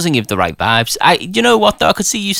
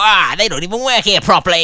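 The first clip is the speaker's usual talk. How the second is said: higher, hammed-up moan with wailing ah; lightly put-on self-important grumble; mock whingeing colleague; 4 semitones higher than usual. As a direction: tease a co-host with a moaning imitation. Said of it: "Do I say it in that voice as well?".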